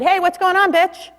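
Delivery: high, playful imitation of a swearing mom; mom trying swearing. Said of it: "I'm trying out the swearing thing".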